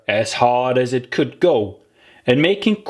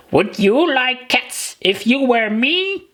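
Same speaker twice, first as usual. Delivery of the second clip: higher, squeaky indignant creature voice; indignant mouse; 13 semitones higher than usual. Acted. The mouse challenging Alice, higher squeaky indignation. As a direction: throw the question back at her.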